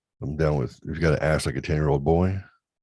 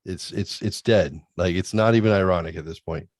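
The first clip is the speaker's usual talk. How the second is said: exasperated son. Retold or imitated. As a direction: play the irritated teen. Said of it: "the tone changes".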